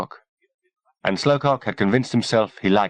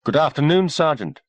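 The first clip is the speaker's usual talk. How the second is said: high-pitched woman's greeting; female voice; 8 semitones higher than usual. A narrator's reading. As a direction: greet him in a lifted female voice. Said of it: "said a female voice".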